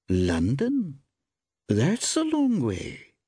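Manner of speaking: high, slow woman, mildly warm; rather warmer tone. A narrator's reading. Woman shopkeeper comments on the traveller's journey, a little warmer. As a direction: thaw a little, drawing it out. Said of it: "in a rather warmer tone".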